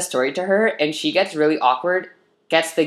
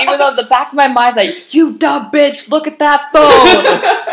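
high, loud, slow laughing scolding; much higher, louder laughing self-scolding; laughing inner voice; 9 semitones higher, 8 dB louder, slower than usual. Retold or imitated. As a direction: play your own nagging brain, cracking up.

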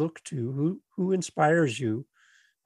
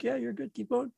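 imitated casual reassurance; 9 semitones higher, 7 dB quieter than usual. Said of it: "You're like".

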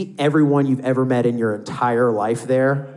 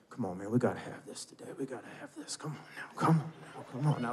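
put-on drunk sports fan urging the team under his breath; muttering to oneself; 2 semitones lower, 16 dB quieter, faster than usual. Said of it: "muttering to themselves".

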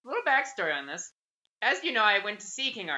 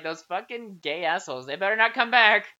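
mock outrage building louder; mock angry griping; 2 semitones higher, 5 dB louder than usual. Store staff griping about troublesome customers, in building mock outrage.

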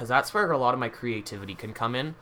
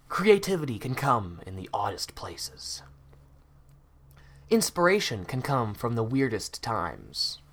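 mock profound. Mock-deep life advice.

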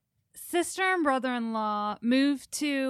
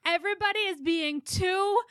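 lightly voiced small child, higher and slow; drawn-out, pitched-up imitation of a child protesting; complaining little niece; 5 semitones higher, slower than usual. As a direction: mimic an overwhelmed kid's complaint. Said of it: "with her hands over her ears saying".

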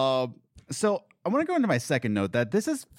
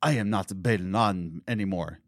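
a hint of a lower, slow hammed-up hero voice; cheesy villain line; 7 semitones lower than usual. Mocking a cheesy movie line, lightly lowered ham delivery. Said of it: "of course he says".

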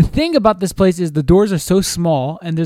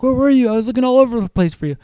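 put-on flustered girlfriend; 7 semitones higher, faster than usual. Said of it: "She's like".

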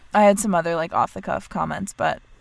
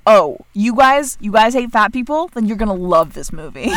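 trailer voice; 6 dB louder than usual. Pretend. Mocking trailer voice.

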